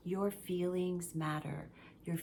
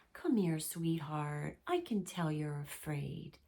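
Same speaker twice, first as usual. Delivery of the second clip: soothing caregiver; 3 semitones lower than usual. Acted. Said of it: "needs to soothe that little being".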